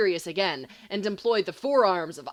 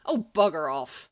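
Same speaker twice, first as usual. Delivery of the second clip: louder, curt brush-off; irritable snap; 4 semitones lower, 4 dB louder than usual. Acted. Sirius snapping at Remus, louder and curt. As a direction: snap it at him dismissively. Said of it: "Sirius snaps".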